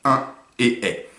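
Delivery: et est prononcés lentement, bien séparés; sons de fin détachés. Shown as a demonstration. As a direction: appuyer sur et puis est. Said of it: "et à la fin". (insister lentement sur et et est)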